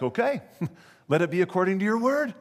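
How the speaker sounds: high and fast with a laugh; laughing acceptance. Retold or imitated. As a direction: cheerfully laugh it off and agree. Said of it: "And she's like".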